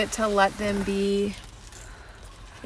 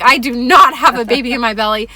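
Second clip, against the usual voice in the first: louder, emphatic mock protest; indignant denial; 6 dB louder than usual. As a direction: retell a firm, loud denial. Retells indignant denial to child.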